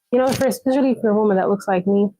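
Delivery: quick hushed whisper, half to herself; a quick confiding whisper about being a woman who looks like her; whispered aside. Real, not acted. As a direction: drop to a fast secret whisper.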